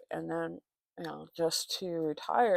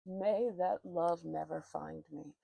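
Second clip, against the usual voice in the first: slow solemn vow; 2 semitones lower, 4 dB quieter, slower than usual. Real, not acted.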